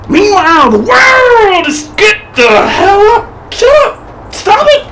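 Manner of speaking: high, urgent shouts at the crowd; shouting down. Acted. Ranting performer shouting at the standing monks, high and urgent. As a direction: yell at them to sit back down.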